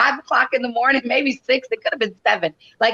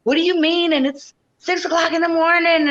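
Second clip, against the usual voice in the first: put-on boyfriend's disbelief; 7 semitones higher than usual. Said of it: "And Tommy was like".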